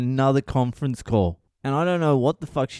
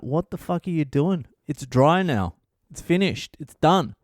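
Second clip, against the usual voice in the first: higher-pitched exasperated protest; mildly worked-up retold argument; 4 semitones higher than usual. Husband telling wife her dough is ruined, exasperated.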